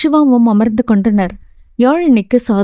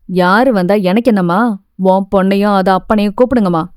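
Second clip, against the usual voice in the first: a lightly lowered, mildly angry gardener; 3 semitones lower than usual. Acted. Gardener complaining to the mother about her daughter, mildly angry lowered voice. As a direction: complain at the door, a hint of grumbling anger. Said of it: "என சத்தம் போட".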